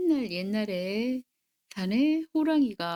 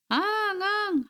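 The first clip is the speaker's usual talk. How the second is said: high, drawn-out mock crying; child's wail; 9 semitones higher, slower than usual. A narrator's reading. Child crying inside the room, high storybook wail. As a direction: imitate a wailing child. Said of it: "하고 우니".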